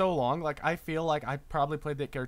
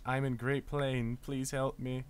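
bird person voice; 4 semitones lower, 6 dB quieter, slower than usual. Pretend. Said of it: "It's in bird person language".

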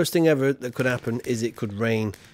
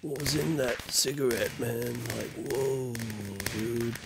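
stoned Guy Fawkes; 4 dB quieter than usual. Pretend. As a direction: play a spaced-out stoner. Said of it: "that wasn't gunpowder, man".

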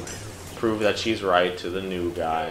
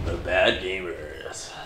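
slow, drawn-out, lower show title; mock show announcer; 5 semitones lower, 4 dB quieter, slower than usual. Finishing the friend's promo for their show, mock announcer. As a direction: announce it slowly, dropping the pitch.

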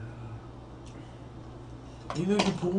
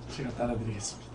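whisper; 8 semitones lower, 9 dB quieter, faster than usual. Real, not acted. Whispered laughing aside.

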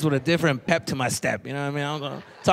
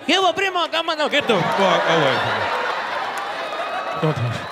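disgusted recoil. Retold or imitated. Boy shouting at his snotty cousin, disgusted. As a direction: push the grimy cousin away.

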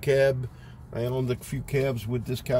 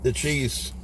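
wiping mouth with napkin; chewing while talking; 5 dB quieter, slower than usual. Real, not acted. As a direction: mouth partly full. Seen 1: Bite taken before; mouth works food, wipes mouth with napkin while speaking.

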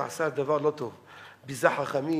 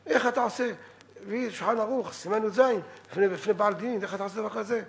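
higher-pitched mock yell, only mildly raised; retold angry protest; 5 semitones higher than usual. Offended sage protests to the rabbi, mildly raised voice. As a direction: imitate an indignant complaint without really shouting. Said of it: "וצעק עליו".

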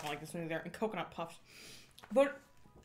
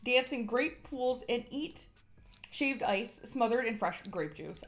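slow, showy announcer read; 3 semitones higher, slower than usual. Acted. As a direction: sell the festival like a commercial. Reads the product script.

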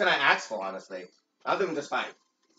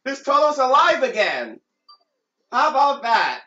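excited; 7 semitones higher, 4 dB louder than usual. Real, not acted. Cheering a revived character.

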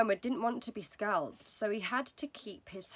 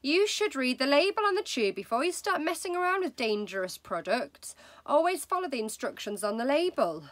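higher, louder preachy wife; wife's voice; 6 semitones higher, 5 dB louder than usual. Acted. Wife lecturing husband on labels, loud preachy. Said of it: "Missus Wormwood said to him".

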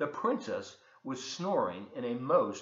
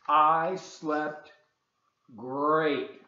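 happy princess; 2 semitones higher, 9 dB louder, much slower than usual. Acted. Princess answers happily.

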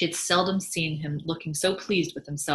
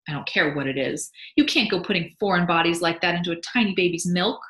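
a touch louder indignant mother; indignant wife; 5 dB louder than usual. Acted. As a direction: scold husband about the baby. Mabel voiced, indignant.

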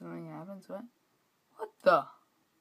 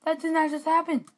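disbelief; 10 semitones higher, 6 dB louder than usual. Real, not acted. Losing in game.

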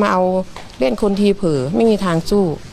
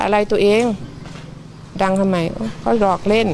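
lightly voiced wife teasing. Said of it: "เมียก็จะบอกว่า".

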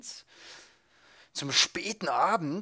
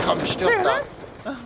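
slow, high, louder plea; tense urging; 7 dB louder, much slower than usual. Real, not acted. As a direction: stretch each word at the screen. Urging enemy to die. (gedehnt und hoch)

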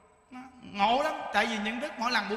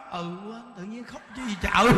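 sheepish laugh; 2 semitones lower, 3 dB louder than usual. Retold or imitated. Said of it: "Bà nói".

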